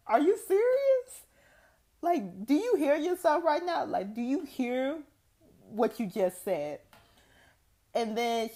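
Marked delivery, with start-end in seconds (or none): 0.1-6.8 high, loud disbelief with a laugh; incredulous. Retold or imitated. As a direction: react to mom in shocked disbelief, pitched way up. Retold shocked retort to mom.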